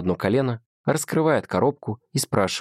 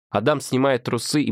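plain reading voice

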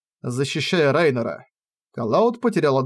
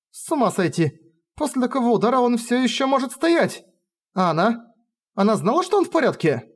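astonished exclamation; 9 semitones higher than usual. Acted. Astonished heroine.

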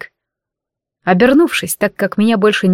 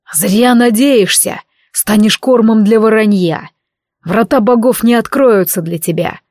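growling. Acted. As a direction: growl it at the enemy. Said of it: "зарычал Асур".

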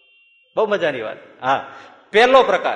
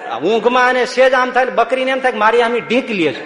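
higher and louder, with laughter breaking through; can't hold back the laugh telling it; laughing storytelling; 5 semitones higher, 6 dB louder than usual. Real, not acted. Swami to the congregation, laughing through the goat story.

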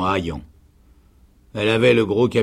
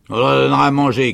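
loud, fast sergeant's shout; 5 semitones higher, 8 dB louder, faster than usual. A narrator's reading. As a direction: shout it out briskly, higher. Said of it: "cria le sergent". (cri rapide de sergent)

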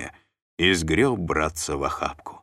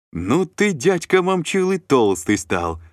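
higher, louder, joyful shout; 11 semitones higher, 5 dB louder, slower than usual. A narrator's reading. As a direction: yell it while running to hug him. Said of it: "закричал Артём". (радостно закричав)

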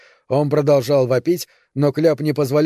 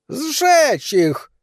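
very high, strained shriek; a villager howls for fire; piercing cry from the mob; yelled demand; 13 semitones higher than usual. A narrator's reading. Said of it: "завопил четвёртый".

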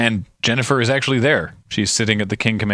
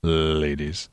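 Magnum; 6 semitones lower, 6 dB quieter than usual. Retold or imitated. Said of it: "My name's Thomas Magnum".

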